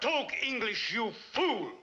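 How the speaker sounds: angry snap. Acted. Premier berating his aide in a furious snap. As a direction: cut him down with contempt.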